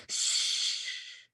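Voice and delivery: soft hushing; soft shush. Acted. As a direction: hush them so they listen. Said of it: "she said".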